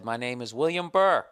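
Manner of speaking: mildly pompous letter voice; formal letter reading. Acted. Customer reading his complaint letter to the airline, formal. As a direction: read out your name formally.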